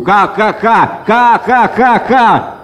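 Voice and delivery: high, slow mocking laughter; parrot cackle. A narrator's reading. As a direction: cackle at the fool. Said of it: "попугай всё хохотал". (высокий издевательский хохот)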